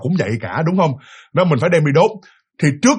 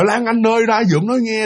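higher-pitched call to a niece, not truly shouted; mild retold call-out; 6 semitones higher than usual. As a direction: imitate an uncle calling someone out. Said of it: "bắt đầu ông mới la lên". (giả giọng dượng gọi cháu)

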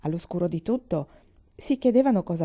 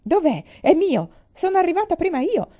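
crowd shouting; 11 semitones higher, 7 dB louder than usual. Acted. Crowd storming director's office.

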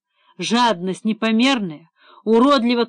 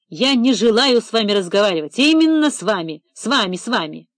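shaking fury. Acted. Director rebukes investigator over insinuation, shaking fury. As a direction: hurl the insult back, trembling. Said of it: "Он демонстративно отвернулся от Эдика, его всего трясло".

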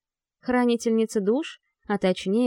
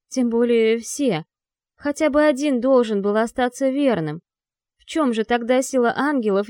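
defiant; 3 semitones higher than usual. Acted. Angel defies the demon lord.

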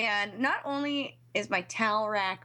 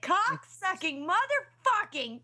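retold screaming; 7 semitones higher, slower than usual. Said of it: "I was literally scream".

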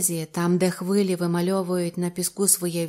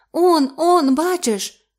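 panicked; 9 semitones higher, 7 dB louder, much slower than usual. Acted. Li sees the beast again.

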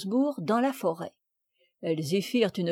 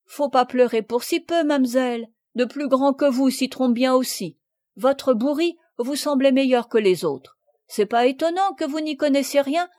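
lightly voiced peasant boy, a bit louder; a simple farm lad comforting the girl, a touch louder; country boy consoling; 3 semitones higher, 4 dB louder than usual. Farm boy consoles crying Sophie, lightly voiced rustic lad.

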